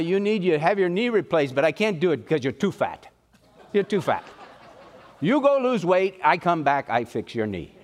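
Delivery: lightly voiced blunt foreign surgeon; a hint of a blunt doctor laying down terms. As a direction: imitate a surgeon's matter-of-fact bluntness. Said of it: "he was kind of blunt".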